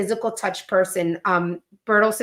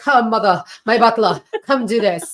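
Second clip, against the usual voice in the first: put-on bossy kids; 5 dB louder than usual. Kids ordering mom like a servant.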